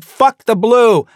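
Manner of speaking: high, loud, slow shout; retold shout. Rioters outside the Speaker's lobby shouting high, loud and slow. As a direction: bellow it through the door. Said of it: "people shout".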